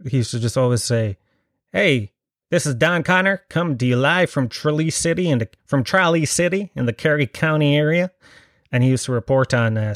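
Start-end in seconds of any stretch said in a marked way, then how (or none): 1.7-8.1 American character voice. Retold or imitated. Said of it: "I used to do a character years ago".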